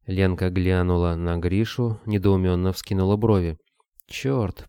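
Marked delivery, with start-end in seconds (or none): 4.1-4.7 higher mild curse through the teeth; through gritted teeth. A narrator's reading. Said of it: "процедил тот сквозь зубы". (сдавленно, сквозь зубы)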